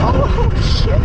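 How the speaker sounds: high, loud surprised yelp; startled yelp. Real, not acted. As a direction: yelp as the wheel slips. Bike slips in snow.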